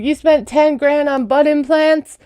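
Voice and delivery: high-pitched retold disbelief; mock incredulous outrage. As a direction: act out shock at the bill.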